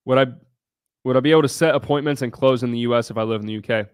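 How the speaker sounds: put-on a light Indian accent, read fast. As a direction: read the viewer's question in a mild Indian accent. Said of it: "I read this in an Indian accent".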